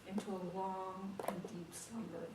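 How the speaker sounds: ordinary delivery, nothing marked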